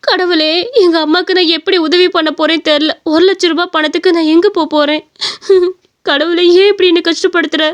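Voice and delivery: tearful despair. Acted. Daughter prays over her mother's surgery money, tearful despair. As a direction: lament to God, mildly tearful. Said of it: "அவ ரொம்ப உட்காந்து அழுதுகிட்டு இருந்தா".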